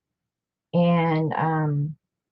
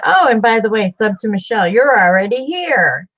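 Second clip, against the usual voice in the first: mock announcement; 4 semitones higher, 5 dB louder than usual. Retelling her own joke on a show.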